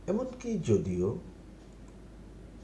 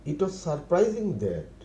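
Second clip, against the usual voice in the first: very slow, each word laid out for learners; slow model phrase; much slower than usual. Shown as a demonstration. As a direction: spell it out slowly for the class. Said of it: "teacher repeats model phrase". (ধীরে ধীরে শেখানোর ভঙ্গিতে)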